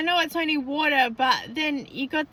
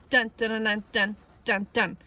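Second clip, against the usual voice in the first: imitated friend knock; 2 semitones lower than usual. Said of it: "because they did that knock".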